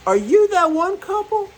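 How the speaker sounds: suddenly recognizing them; amazed question. Retold or imitated. Recognizing the couple.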